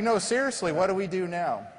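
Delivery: high, pressing insistence; insistent plea. Retold or imitated. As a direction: push the question urgently. Surgeon insisting, retold.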